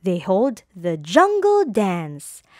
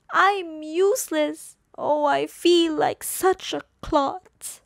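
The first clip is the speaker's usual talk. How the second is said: a touch of self-pity, higher; dejected; 7 semitones higher than usual. A narrator's reading. Gerald alone after fleeing the dance, mild dejection. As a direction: mutter it to yourself in gloom. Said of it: "he thought".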